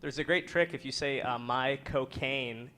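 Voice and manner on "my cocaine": Michael Caine. Shown as a demonstration. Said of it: "in Michael Caine's voice".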